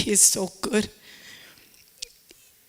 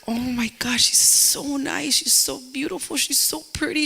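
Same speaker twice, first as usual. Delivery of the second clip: gushing excitement; 5 semitones higher than usual. Retold or imitated. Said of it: "I was like".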